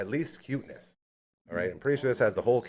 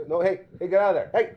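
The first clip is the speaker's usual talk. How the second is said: calling a dog; 6 semitones higher, 4 dB louder than usual. Real, not acted.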